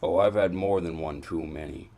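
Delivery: indignant, with heavy emphasis; heated accusation. Acted. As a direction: throw the accusation back hard. Heated accusation in acted quarrel.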